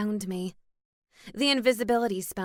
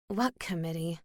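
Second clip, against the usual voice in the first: glum; 3 semitones lower, 4 dB quieter than usual. Acted. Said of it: "I asked glumly".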